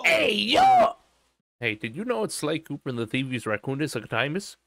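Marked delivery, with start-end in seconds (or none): 0.1-0.9 loud high "hey yo"; shouting. Real, not acted. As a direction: yell it out.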